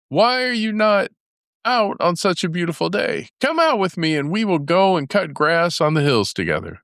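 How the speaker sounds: high, sweet voice coaxing a friend out; a crafty little rabbit sweet-talking, voiced high; sly rabbit. A narrator's reading. Rabbit lures badger outside.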